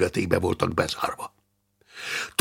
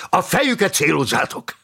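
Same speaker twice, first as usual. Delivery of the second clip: raised, high-pitched battle order; shouted command; 9 semitones higher than usual. A narrator's reading. Commander directing fighters against the dead, shouted command. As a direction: call the order out to the men. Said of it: "kiáltotta Szilárd".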